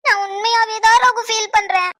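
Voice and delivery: slow, drawn-out tearful whine; overacted wounded protest; put-on sincerity. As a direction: plead that the hurt is real. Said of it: "எப்படித்தான் இப்படிலாம் நடிக்க முடியுதுன்னு".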